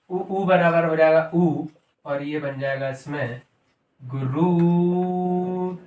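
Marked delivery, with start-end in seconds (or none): 4.0-5.7 गुरुत्सव drawn out very slowly; slow sounding out. Shown as a demonstration. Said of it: "teacher sounds out answer". (गुरुत्सव को बहुत धीरे खींचकर बोलें)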